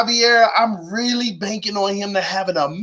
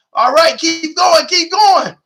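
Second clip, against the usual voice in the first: high, loud, rising shouts to the chat; hyped; 11 semitones higher, 4 dB louder than usual. Real, not acted. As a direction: pump up the live chat, cracking with excitement. Hyping chat to hit like.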